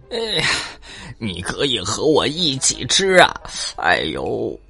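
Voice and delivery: pinched, flattering little voice; squeezed fawning voice. Acted. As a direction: squeeze the throat and butter him up. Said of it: "扁着嗓子讨好地说".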